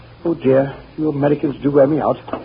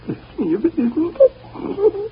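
amazed; 14 semitones higher, much slower than usual. Acted. Amazed at the couple.

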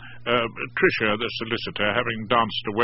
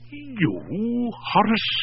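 higher, disbelieving question; can't believe it; incredulous; 10 semitones higher, much slower than usual. A narrator's reading. Ex-matron hearing her husband's friend will join, incredulous. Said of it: "sounded incredulous".

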